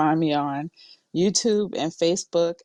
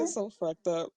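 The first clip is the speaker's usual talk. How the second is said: whispering; 2 semitones higher, 5 dB quieter than usual. Real, not acted. Trying not to laugh.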